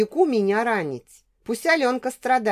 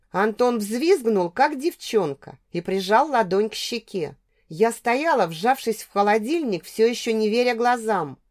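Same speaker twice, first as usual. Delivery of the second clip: plain reading voice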